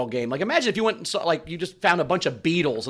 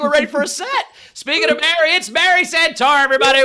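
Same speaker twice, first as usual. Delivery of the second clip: announcer intro; 9 semitones higher, 5 dB louder than usual. Real, not acted. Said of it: "introducing the comic".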